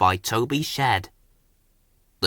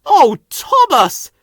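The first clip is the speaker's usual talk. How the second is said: relieved confession; 9 semitones higher, 5 dB louder than usual. A narrator's reading. Toby confessing to Thomas he was scared. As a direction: admit it shyly.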